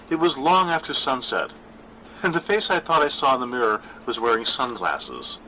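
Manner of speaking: a hint of nervous daughter; Gwen's voice. Narrator voices daughter Gwen.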